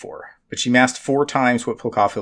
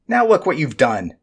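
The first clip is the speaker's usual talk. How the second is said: barking; 5 semitones higher than usual. A narrator's reading. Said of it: "barked Nestmom".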